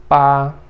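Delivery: "pá" held level and loud; first tone. Shown as a demonstration. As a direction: sustain "pá" on one even note. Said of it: "primeiro tom".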